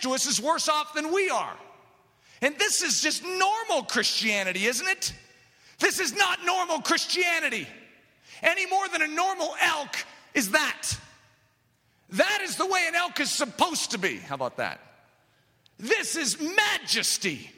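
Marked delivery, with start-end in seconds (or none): 5.8-14.2 preaching at full force. Acted. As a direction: drive it home to the congregation. Preacher's rising climax.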